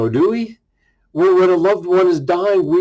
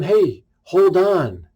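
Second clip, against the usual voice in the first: slow, calm "hold on"; calm reassurance; much slower than usual. Retold or imitated. Jesus calming Peter, slow and reassuring. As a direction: settle him down gently.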